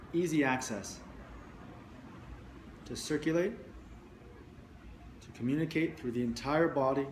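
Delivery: measured meditation guiding with long pauses between phrases; guided meditation. Real, not acted. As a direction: guide listeners into the body, leaving space after each phrase.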